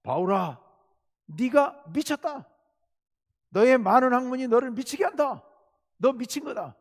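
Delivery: the governor bellows that Paul has lost his mind; roaring outburst. Retold or imitated. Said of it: "소리를 버럭 지릅니다".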